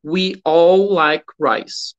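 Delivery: slow, stretched all; slow teacher read for repetition; slow model sentence. Shown as a demonstration. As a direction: model it slowly for them to repeat.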